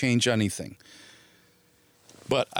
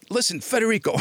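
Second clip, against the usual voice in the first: irritated agent; 10 semitones higher than usual. Retold or imitated. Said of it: "he's getting really pissed off".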